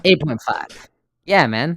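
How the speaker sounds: excited. Real, not acted. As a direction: cheer the score. Hyping his score.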